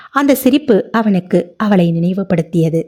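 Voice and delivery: ordinary delivery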